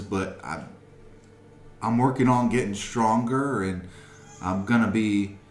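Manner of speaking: put-on high, loud, shaky pleading boy; a frightened teenager begging for his life, voice high and trembling; condemned boy pleads to the townsfolk, high and shaky; shaky scared teen. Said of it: "shakes in the way he's speaking".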